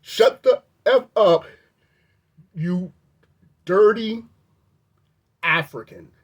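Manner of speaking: retold yell. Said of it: "he says".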